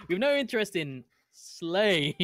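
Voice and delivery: mimicking someone, "slaves" stretched long and high; mock-grand line with a huge held "slaves"; exaggerated emphasis on slaves. Player imitating another player's line, overdoing "slaves". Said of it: "just emphasized the word slaves".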